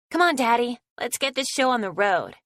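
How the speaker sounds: high, loud and eager; excited child. Acted. Little girl urges her daddy to start, high excited voice. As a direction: bounce into it like a thrilled little girl. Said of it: "Annabelle says ... excitedly jumps".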